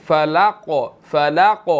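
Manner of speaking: فَلَقَ with a thick, full qaf and a bounce on it; فَلَقَ with a full qaf and a rising lilt; heavy qaf. Shown as a demonstration. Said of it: "اس کو موٹا پڑھیں گے".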